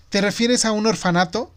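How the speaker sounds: put-on alarmed little boy asking; niño alarmado. A narrator's reading. Niño alarmado ante el orfanato. (niño alarmado)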